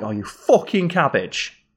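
the insult take of "you fucking cabbage", slow with a sharp "fucking". Shown as a demonstration. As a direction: spit it out as a put-down. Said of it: "based on how it's delivered".

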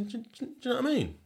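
high, fast, slurred know-what-I-mean; Sheffield slurred. Shown as a demonstration. Sheffield boy showing his own slurring. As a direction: run it together Sheffield-style. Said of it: "I say".

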